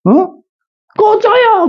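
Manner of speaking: high whiny mock shriek; imitating daughter yelling. Teacher mimicking daughter shouting at him to leave, high mock yell. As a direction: throw a teen girl's angry "go away". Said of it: "막 그러고".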